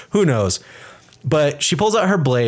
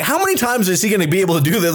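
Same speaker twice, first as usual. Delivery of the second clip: higher, incredulous heckle breaking into laughter; amused disbelief; 6 semitones higher, faster than usual. Acted. Mock disbelief at film villain's gullibility.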